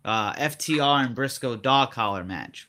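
slow, deliberate announcement; speaking slowly. Real, not acted. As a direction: stretch it out to stall for time. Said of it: "I'm speaking slowly".

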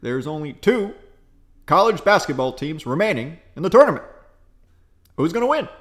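measured, pausing presidential cadence; a light Obama with long dramatic pauses; Obama impression. Friend asked for Obama, lightly voiced pausing cadence. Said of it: "Can you do an Obama impersonation?".

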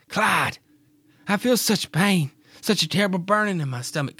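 high, strained, pained wife crying out; wife in labor pains calling Clyde; Mary in pain. Acted. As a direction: cry to him through the pain, pitched high. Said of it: "this is what they sound like".

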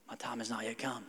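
put-on a cheeky kid dodging the shower; kid's mock excuse. Son dodges dad's shower order, soft mock mumble. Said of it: "It's kinda like when my kids".

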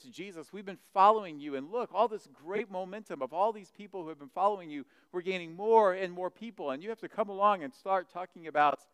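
exasperated complaint. Retold or imitated. Followers complain Jesus is spoiling their momentum, exasperated. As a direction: build a mock protest to the teacher.

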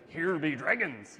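lightly hammed-up pirate. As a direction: growl it like an old pirate. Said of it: "obviously sounds better in a pirate voice".

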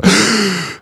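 mock gasp. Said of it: "and I go".

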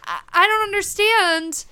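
baffled, rising disbelief; high, confused disbelief; incredulous. Retold or imitated. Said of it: "and you're like".

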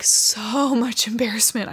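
laughing through the words, slowed down. Real, not acted. Telling viewers about her embarrassment, laughing. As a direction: let a real embarrassed laugh break in.

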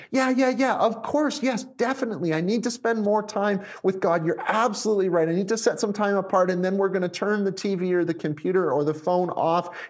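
mock a keen, quick yes-man; eager agreement. Listener agreeing with the message from home, mock-eager agreement. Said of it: "and it's like".

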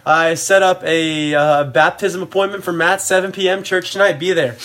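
lightly imitated Nicaraguan grandma's broken English; slightly halting broken-English accent, imitating grandma. Grandma announcing a church baptism appointment, lightly accented broken English. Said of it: "in her broken accent".

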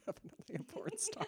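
squeaky falsetto tease; high mock sultry. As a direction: pitch it way up, breathy and sly. Mock high breathy repeat.

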